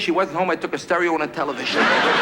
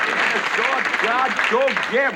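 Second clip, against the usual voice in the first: slow, slurred cowboy sidekick gibberish; two old-timers garbling at each other; mushy nonsense mumble, some of it high; mumbling old-timers; 5 semitones higher, slower than usual. Retold or imitated. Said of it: "Imagine him in a picture with Gabby Hayes".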